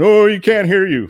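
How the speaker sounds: high, loud mock yell of a granny heckler; retold yelling. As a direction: imitate an old lady yelling at a fan. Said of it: "started yelling at me".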